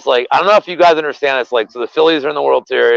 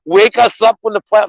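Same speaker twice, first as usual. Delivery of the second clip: mock Pittsburgh fan; 7 semitones higher than usual. Mocking Pittsburgh fans to his co-host, high squealing gloat. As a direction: shriek it like a bragging rival fan, half laughing. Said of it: "Pittsburgh fans are like".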